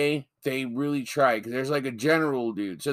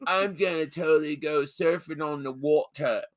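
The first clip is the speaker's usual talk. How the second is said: Californian talk spoiled by British "waw-tuh"; put-on accent, landing on a British "water"; mock British slip. Co-host mocking a fake San Diego surfer, British-accented "water". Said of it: "He says water".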